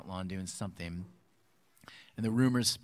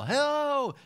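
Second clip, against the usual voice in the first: much higher, louder sing-song hello; yelled hello; 10 dB louder than usual. Retold or imitated. Friend yelling a greeting at the neighbor, high sing-song call. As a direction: call it across the lawn. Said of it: "Even when he would yell".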